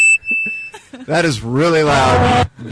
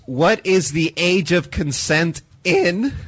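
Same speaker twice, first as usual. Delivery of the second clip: voice cracking; slower than usual. Real, not acted. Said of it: "Jesus, my voice cracked".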